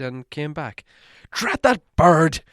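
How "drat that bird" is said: cross. A narrator's reading. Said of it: "said Bilbo crossly".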